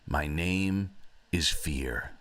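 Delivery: lightly acted last words; a hint of a dying giant; dying breath. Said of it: "with his last breath".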